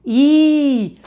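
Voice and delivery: "I" alto e bem aberto; som da vogal. Shown as a demonstration. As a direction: cante o "I" claro para a turma. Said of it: "Qual é o som do I?". (vogal "I" bem marcada)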